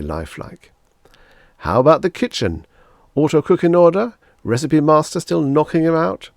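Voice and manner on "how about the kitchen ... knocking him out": louder, beaming salesman flattery; gushing salesman. Acted. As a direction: lay the praise on thick. Salesman Pathis asks.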